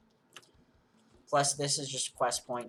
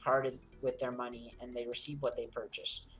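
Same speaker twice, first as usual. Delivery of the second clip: character voices; 4 semitones higher than usual. Acted. Voices NPCs in quest dialogue.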